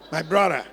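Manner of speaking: "brother" said as "brorra", no TH; mispronounced brother. Retold or imitated. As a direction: imitate the learner's loud "brorra" for "brother". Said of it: "brother as brother".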